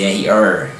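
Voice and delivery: "er" with the tongue curled back on the R; "er" as a drawn-out retroflex R sound. Shown as a demonstration. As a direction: say "er" with a held caipira-style R. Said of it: "como os linguistas chamam de retroflexo".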